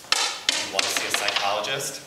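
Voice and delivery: loud, slow, deliberate question; a hint of a stern official asking slowly; lightly voiced principal. Quotes the principal's reply.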